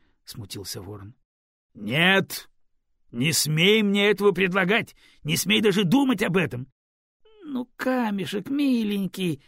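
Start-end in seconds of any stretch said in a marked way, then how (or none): 1.7-6.7 angry refusal. Acted. Камень резко запрещает. 7.4-9.4 higher, coaxing plea; pleading. Acted. Raven begs the Stone to help the girl, pleading. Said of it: "взмолился Ворон".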